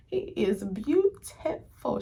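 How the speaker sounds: gentle dreamy afterthought; lighter swoon. Real, not acted. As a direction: say it again, still dreamy but calmer. Swooning repeat, calmer.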